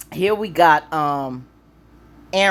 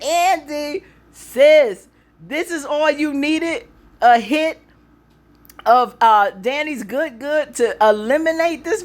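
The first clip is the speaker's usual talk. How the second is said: higher, cheering the character on; hyped up; 7 semitones higher than usual. Real, not acted. Fan talking to Andy on screen, hyped.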